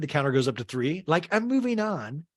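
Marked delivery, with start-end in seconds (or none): 1.1-2.3 high, slow mock-aggrieved voice; drawn-out and pitched up; Meredith. Meredith drops it pointedly, imitated high and slow. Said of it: "And Meredith goes".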